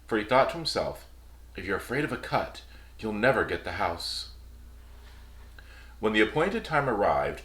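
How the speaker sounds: calm bedtime fairy tale reading; storybook narration. Acted. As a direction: read it like a gentle storyteller. Reads fairy tale aloud.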